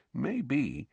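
low, quiet aside. A narrator's reading. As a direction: drop the voice conspiratorially. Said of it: "in a lower voice".

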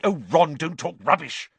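high, loud impatience; exasperated scolding; snapping. A narrator's reading. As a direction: snap it as a rebuke. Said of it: "snapped Hermione".

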